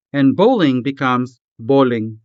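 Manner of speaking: bowling said as "poʊling", with a hard P in place of the B; Hiligaynon bowling. Shown as a demonstration.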